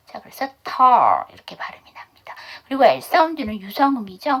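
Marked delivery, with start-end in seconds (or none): 0.6-1.2 털 with a drawn-out open aw vowel before the l; long eo vowel. Shown as a demonstration. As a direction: say 털 as tall, vowel held long. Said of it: "A는 어 발음의 장모음".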